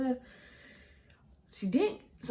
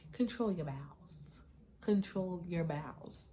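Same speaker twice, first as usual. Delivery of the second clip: stern self-talk; 5 dB quieter, slower than usual. Retold or imitated. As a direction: draw each word out like coaching yourself. Slow self-command while on toilet.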